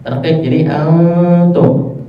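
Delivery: "antum" slow with a thin light t; thin tarqiq reading. Shown as a demonstration. Teacher shows "antum" read with tarqiq. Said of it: "Ta di sini adalah tarqiq".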